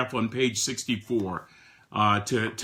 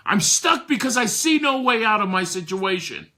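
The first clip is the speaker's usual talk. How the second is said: hopeless answer; 7 semitones higher, 3 dB louder than usual. Retold or imitated. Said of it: "why are you stuck".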